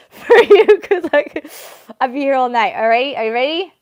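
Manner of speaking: high and loud, teasing the viewers; milk the suspense, loud and bright; announcer hype before the big reveal; hyped-up suspense. Real, not acted.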